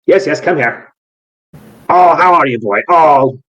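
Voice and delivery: an odd master cooing at his dragon; eccentric breeder. Acted. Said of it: "voice from within go".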